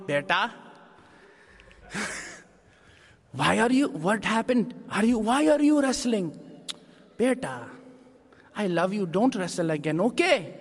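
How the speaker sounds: lightly voiced fussing Indian mom; a hint of a worried Desi mother. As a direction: fret over your son like a doting mother. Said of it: "the Desi mom".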